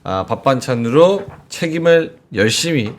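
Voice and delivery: upbeat live sales pitch, key words stretched; conversational host-read commercial; sponsor ad read. Acted. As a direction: pitch the product to viewers.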